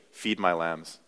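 gentle Jesus command. Acted. Pastor voicing Jesus to Peter, soft and gentle. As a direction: quietly hand over the charge.

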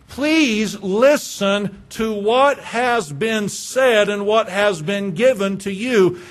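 drawn-out, slow pleading; a slow, earnest appeal; slow earnest plea. Acted. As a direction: plead with them, very slowly. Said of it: "could be said like this".

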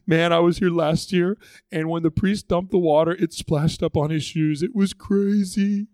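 lightly acted eager chatter, drawing out the big words; a touch of giddy anticipation; excited festivalgoer. Festival crowd awaiting the priest's water, mildly excited chatter. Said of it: "they're all getting excited".

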